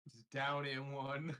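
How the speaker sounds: loud and slow, savoring it; proud boast. Acted. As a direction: announce it with relish. Downing a keg in one.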